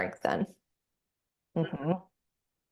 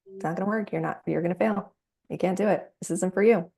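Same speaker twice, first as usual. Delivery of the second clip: shaming inner voice; 2 semitones higher, faster than usual. Retold or imitated. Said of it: "that voice is following us saying".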